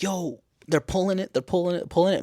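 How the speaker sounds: high-pitched, repetitive excited commentary; excited reaction. Acted. Viewer watching them pull the moose out, excited. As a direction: keep the pitch up on each repeat.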